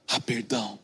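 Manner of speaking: Há perdão said tenderly soft; hushed. Acted. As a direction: let Há perdão fall gently and softly. Preacher repeats promise, hushed.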